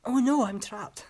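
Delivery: high, mock-helpless little girl line; high and mockingly helpless, like bad acting; mock helpless actress. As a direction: send up a wooden child actress crying for help. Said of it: "she's like".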